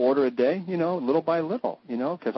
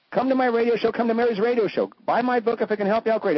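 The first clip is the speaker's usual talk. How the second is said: mock sales pitch; 8 semitones higher than usual. Upbeat self-promo pitch.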